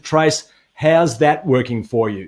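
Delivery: slow, pointed mum's question; lightly voiced mother asking it slowly. Host quoting Tracy's mum, slow and pointed. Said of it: "your mum looked at you and said".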